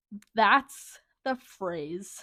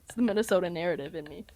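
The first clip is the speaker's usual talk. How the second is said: laughing; 4 semitones lower, faster than usual. Real, not acted. Laughing self-explanation.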